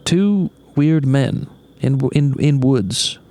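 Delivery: slow, formal breaking news read; news anchor voice. Shown as a demonstration. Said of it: "You gotta use the news anchor voice".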